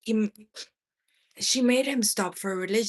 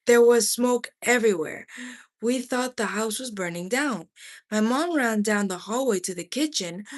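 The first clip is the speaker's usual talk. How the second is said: ordinary delivery, nothing marked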